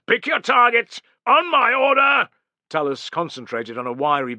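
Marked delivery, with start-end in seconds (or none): 0.1-2.3 high, loud commands; yelled orders. Acted. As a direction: hold them on the order. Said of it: "he yelled".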